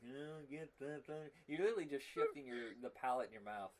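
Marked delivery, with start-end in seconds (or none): 0.1-1.3 Underdog villain voice. Retold or imitated. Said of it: "doing the voices from Underdog".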